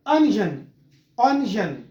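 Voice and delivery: अनियन as "an-jun"; correct अनियन. Shown as a demonstration. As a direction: model अनियन in two syllables, "un-jun". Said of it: "तो इसकी correct pronunciation है".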